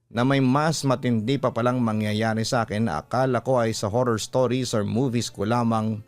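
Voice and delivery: usual speaking voice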